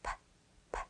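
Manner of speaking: "P" as a bare puff of air with no voice; teacher modelling the sound "P"; isolated P sound. Shown as a demonstration. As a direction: pop the lips on "P" and just blow. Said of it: "Can you hear that P sound?".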